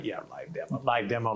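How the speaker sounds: dry, doubtful repeat under the breath; sarcastic mutter. Retold or imitated. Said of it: "And I'm going".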